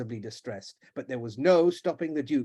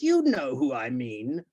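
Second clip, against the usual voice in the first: slow pointed insistence; slower than usual. Acted. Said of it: "looked hard and furiously".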